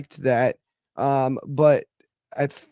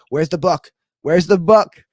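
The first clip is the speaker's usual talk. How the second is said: mock demanding fan; 6 semitones higher, 7 dB louder than usual. Fan spamming comments, mock demand.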